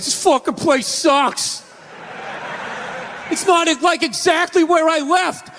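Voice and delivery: high, griping mock rant; whiny East Coast friend.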